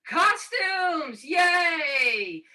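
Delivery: high, loud little cheer for costumes; excited cheer. Real, not acted.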